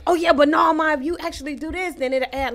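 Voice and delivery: mock know-it-all tone; mocking relatives. Quoting relatives.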